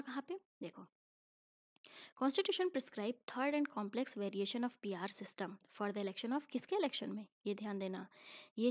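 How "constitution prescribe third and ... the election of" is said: slow, deliberate textbook reading; slow reading aloud. Acted. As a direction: read each English word out slowly for the class.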